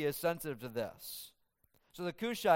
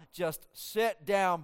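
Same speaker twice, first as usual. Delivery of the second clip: slow firm order; 3 semitones higher, much slower than usual. Retold or imitated. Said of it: "what I pictured Joab saying to Ahimaaz".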